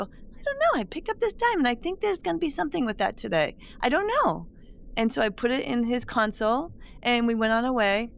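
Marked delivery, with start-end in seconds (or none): 0.0-4.5 retold giddy reply. Her own retold reply.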